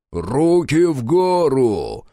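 slow, loud, droning command through an armored suit; booming metallic voice. Acted. Armored soldier ordering the prisoners' hands up, metallic boom. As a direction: boom it out like a machine, slow and heavy. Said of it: "прогудел металлический голос".

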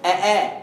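"آه، آه" with a full glottal catch starting each; two hamzas in a row. Shown as a demonstration. Teacher demonstrates two consecutive hamzas for a student, two hamzas in a row. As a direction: pronounce both hamzas of "آه، آه" distinctly. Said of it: "انطق همزتين ورا بعض".

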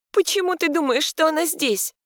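high, cracking question; voice breaking. A narrator's reading. Heroine asks Mikhail with a breaking voice. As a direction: ask through a breaking voice. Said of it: "срывающимся голосом спрашивает".

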